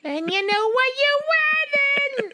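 screechy high sung housewife impression, drawn out; piercing off-key sitcom wife singing; Edith Bunker. Shown as a demonstration. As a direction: warble it very high and slowly. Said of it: "Edith, Edith Bunker".

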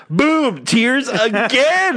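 high, excited burst of boom and tears again; excited exclaim. Real, not acted. Telling friends about crying at the film, high and excited.

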